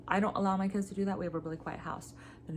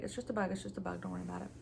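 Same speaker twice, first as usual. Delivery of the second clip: soothing; 4 dB quieter, much faster than usual. Retold or imitated. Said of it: "And I'm like".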